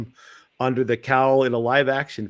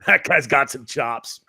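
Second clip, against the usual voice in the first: laughing; 3 semitones higher, 3 dB louder, slower than usual. Real, not acted. Laughing while praising actor.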